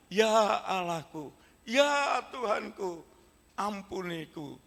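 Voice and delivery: slow, drawn-out cry, rising on Tuhanku then sinking; tearful confession. Acted. Thomas confessing his faith to Jesus, slow tearful cry. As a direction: plead each word slowly as a broken man. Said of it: "Thomas menangis dan berteriak".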